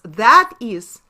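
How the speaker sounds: "that is truth" drawn out slowly, each word set apart; slow explanation. Shown as a demonstration. Teacher slowing down so students catch the meaning. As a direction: spell it out slowly for the class. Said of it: "In other words".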